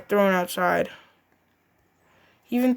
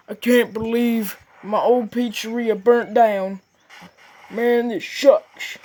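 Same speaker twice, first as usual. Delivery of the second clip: lightly voiced grumpy boss. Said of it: "He was like".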